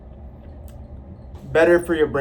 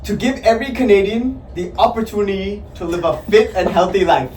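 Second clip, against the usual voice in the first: Canadian accent; 2 semitones higher, faster than usual. Shown as a demonstration. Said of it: "speak in Canadian accent".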